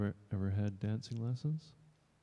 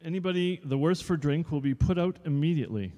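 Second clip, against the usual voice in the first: louder, a touch higher stern teacher; strict dance teacher; 6 semitones higher, 6 dB louder than usual. Acted. Dance teacher addressing new pupils, mildly stern. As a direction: lay down the rules.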